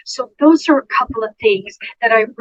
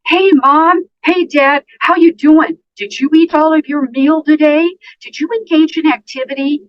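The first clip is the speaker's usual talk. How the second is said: high, loud rapid-fire questions to mom; bombarding greeting; overeager questioning; 7 semitones higher, 5 dB louder than usual. Shown as a demonstration. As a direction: pepper her with cheery questions. Nurse voicing bombarding visitor.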